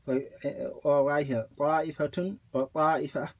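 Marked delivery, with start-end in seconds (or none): 1.6-3.3 "طَائِفَةٌ" begun with a single undoubled ط; no shadda. Shown as a demonstration. Teacher showing separate reading, undoubled ط in "طَائِفَةٌ". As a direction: start each "طَائِفَةٌ" lightly, without holding the ط. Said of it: "you don't make the shadda on the ta".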